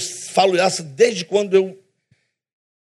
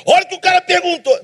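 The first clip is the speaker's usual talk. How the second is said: pitched up and pressing, urgent preacher emphasis; intense but not angry; 9 semitones higher, faster than usual. Shown as a demonstration. Pastor showing the church his way of speaking, fervent. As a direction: punch it like a fired-up pastor, no real anger. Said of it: "Não tô com raiva, é o jeito de falar".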